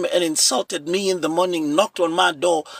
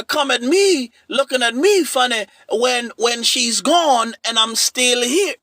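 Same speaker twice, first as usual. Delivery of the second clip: stern brotherly warning; 3 semitones higher than usual. Retold or imitated. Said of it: "I said".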